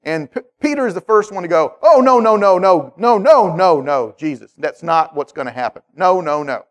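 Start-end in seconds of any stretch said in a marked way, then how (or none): 1.8-6.6 frantic denial. Retold or imitated. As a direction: protest in alarm, then deflate. Peter protesting Jesus' death.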